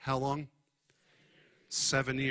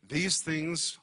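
higher, slow emphatic delivery; raised voice, emphatic; 3 semitones higher, much slower than usual. Acted. Preacher voicing Paul's urgent words to the church, emphatic. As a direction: proclaim each phrase with weight. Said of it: "raising his voice emphatically".

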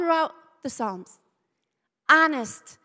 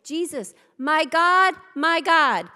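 crying out; 5 dB louder than usual. Retold or imitated. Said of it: "What does he say?".

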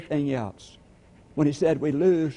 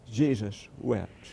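slow, hushed and lower, letting it sink in; solemn repetition; 4 semitones lower, 3 dB quieter, slower than usual. Acted. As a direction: say it slowly, full of gravity.

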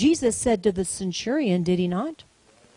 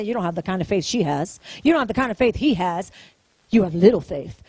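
accusing enemy; 7 semitones lower, faster than usual. Acted. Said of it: "the enemy tries to bring condemnation and say".

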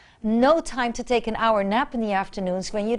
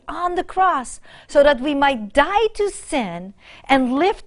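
raised proclaiming reading of scripture; 2 semitones higher than usual. Acted. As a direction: declare the verse to the church. Reads First Peter solemnly.

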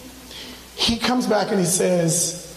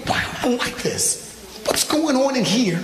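laughing self-question; 3 semitones higher than usual. Retold or imitated. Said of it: "this is me with".

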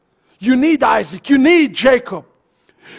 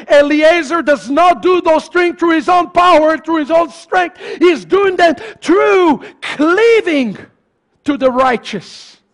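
raised, insistent pulpit delivery; emphatic preaching; 5 semitones higher, 3 dB louder than usual. Real, not acted. Preacher explaining Eliezer to congregation, emphatic preaching. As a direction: drive the point home.

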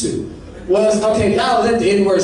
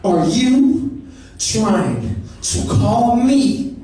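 offended friend; much slower than usual. Acted. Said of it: "He's like".

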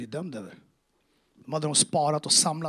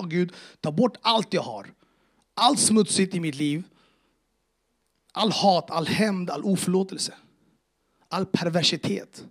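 raised, insistent prayer, item by item; retold pleading prayer; 3 semitones higher, 5 dB louder than usual. Man on his knees begs God, insistent pleading. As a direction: build a forceful list, then ease off at the end.

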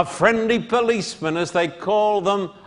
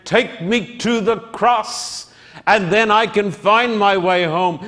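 preacher's plea; 3 semitones higher than usual. Acted. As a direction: plead with the congregation as your own. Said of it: "I say today, my friend".

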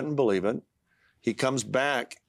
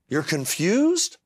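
a slow, higher, louder incredulous echo of his wife; imitating wife; 6 semitones higher, 4 dB louder, much slower than usual. Husband imitating his wife on the phone, stunned and slow. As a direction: mimic his wife's stunned question. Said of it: "so I hear her go".

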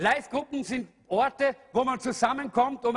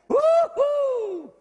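joyful whoop; 6 dB louder than usual. Real, not acted.

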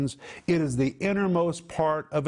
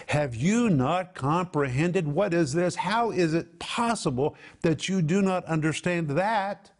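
exasperated disbelief; 3 semitones higher than usual. Acted. Preacher voicing Paul's incredulous plea to the church. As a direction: ask it as if you can't believe they still don't get it. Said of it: "when you put it all together, it means".

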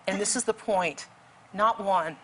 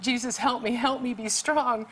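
high pleading prayer, only mildly raised; retold screamed prayer; 4 semitones higher than usual. Rescuer praying while hauling a man in, pleading retold scream. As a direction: plead upward for strength, pitched high. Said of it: "I'm just screaming prayer".

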